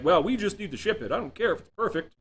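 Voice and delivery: a breezy, dismissive mock boss voice pushing to ship; impatient client who doesn't care; mock business demand.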